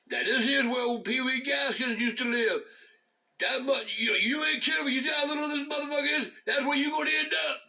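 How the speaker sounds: a mock stern lecture to the youngsters; scolding grandpa. Grandpa warning his grandkids at the cell, mock stern. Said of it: "grandpa scolding kids on tour".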